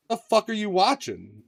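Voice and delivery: hint of an appalled dad, high and slow; disapproving dad. Dad walking in on Con Air, mildly acted disbelief. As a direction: lightly voice a baffled father, drawn out. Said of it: "my dad's like".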